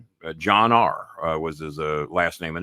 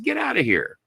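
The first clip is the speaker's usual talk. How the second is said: surprised disbelief. Retold or imitated. Disbelief at caller being Filipino.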